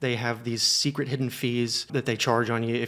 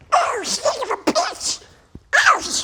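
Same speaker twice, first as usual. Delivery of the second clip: very high, loud, drawn-out cartoon duck voice; 7 dB louder than usual. Impression of Donald Duck stubbing his toe on the couch, Donald Duck voice. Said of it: "This is my impression of Donald Duck stubbing his toe on the couch".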